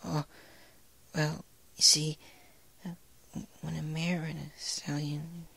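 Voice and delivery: high, shrinking whisper, fading out; mortified and barely audible; embarrassed trailing whisper. A narrator's reading. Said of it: "face turned a deep red, shrunk".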